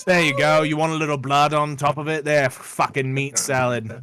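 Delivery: mock-generous serving with a sneer; sarcastic barkeep. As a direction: hand over the bloody salad with contempt. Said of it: "It's like".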